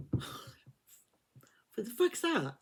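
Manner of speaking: slow, breathless whisper; startled whisper. Retold or imitated. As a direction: whisper as if woken in the dark. Woken by noise at night.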